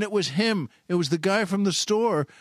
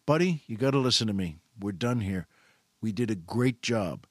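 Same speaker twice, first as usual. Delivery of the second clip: gentle firm reassurance; 6 semitones lower than usual. Retold or imitated. Shopper with hands on the clerk's shoulders, calm reassurance. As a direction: bring it down to calm him.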